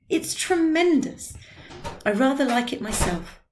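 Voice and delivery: lightly voiced rapture; awed old man. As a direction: marvel at his own back. Drioli admiring tattoo.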